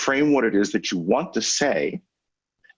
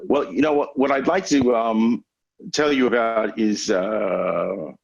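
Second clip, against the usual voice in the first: hesitant filler-word speaker. Shown as a demonstration. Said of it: "they will go".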